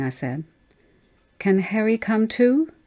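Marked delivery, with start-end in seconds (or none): 1.4-2.7 put-on high little-girl question, rising at the end; high, eager child voice; child asking hopefully. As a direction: ask like a hopeful small child. Child pleads for imaginary friend.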